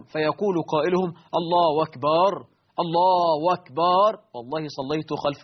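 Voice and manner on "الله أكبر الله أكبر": mock wrong takbir with w; w for hamza. Shown as a demonstration. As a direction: say الله as wallah. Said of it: "إبدال همزة لفظ الجلالة بواو".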